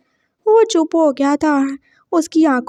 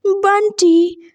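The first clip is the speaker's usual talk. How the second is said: higher, slowly stretched Bunty; mocking; 6 semitones higher, much slower than usual. Boyfriend laughs at the boy's name, mocking drawl. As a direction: draw the name out in ridicule. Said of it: "उसको फिर से ही हंसी आई".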